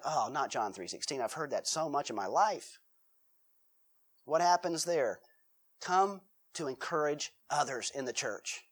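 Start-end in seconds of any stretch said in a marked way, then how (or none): 0.0-2.8 bored groan. Retold or imitated. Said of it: "my response would be like".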